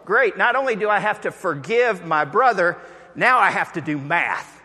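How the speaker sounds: high, loud mock groan of dismay; dismayed guy. A man hearing seventy times seven, mock dismay. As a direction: whine it like a put-upon brother. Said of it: "And the guy goes".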